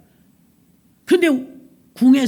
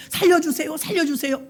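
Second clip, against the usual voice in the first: pleading; 4 semitones higher than usual. Acted. Haman clutching queen's skirt.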